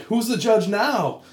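high, slow, gloating comeback; smug retort. Retold or imitated. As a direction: gloat over the judge, drawn out. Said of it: "And I was like".

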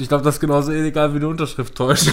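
talking through laughter; fast, laughing words. Real, not acted. Joking, laughing through line.

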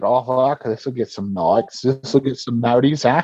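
lightly mocked Aussie accent; Australian accent. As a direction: imitate a cheeky Australian. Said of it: "he's got that Aussie humor".

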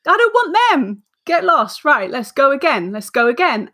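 high, bossy get-a-grip voice; brisk self pep talk. Retold or imitated. Guest replaying telling herself off, high brisk pep talk. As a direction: snap yourself out of it, pitch up.

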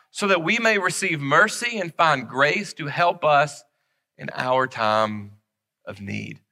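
slow, solemn Bible reading; scripture reading. Acted. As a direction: let each phrase of the verse land. Reads Hebrews aloud.

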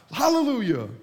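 high, loud burst of mock praise; mock prayer yelling. Preacher mocking showy prayers, yelling. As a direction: shout it like an over-eager pray-er. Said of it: "You're just yelling the biggest words".

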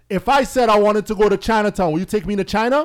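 mock outrage. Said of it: "I started wilding out".

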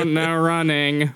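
slow, listless drawl; bored lifeguard. Acted. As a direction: drag it out, bored out of your mind. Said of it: "lifeguard that looks bored out of their mind".

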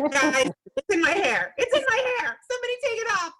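office worker to coworkers with rats in their hair, panicked. Acted. Improv panic over rats in hair.

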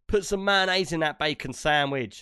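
laughing mock cockney order, slow on the sandwich. Pretend husband ordering his wife about, mock cockney. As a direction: ask for mayonnaise like a cheeky London husband. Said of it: "if you just went".

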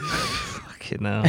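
very high, slow, strangled squeak; squeaky mock exclamation. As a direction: drag it out in a tiny high voice. Repeated in a mock voice.

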